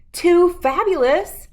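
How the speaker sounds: a vain cat meowing her praise. A narrator's reading. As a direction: purr it out like a pampered cat. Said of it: "meowed Abigail".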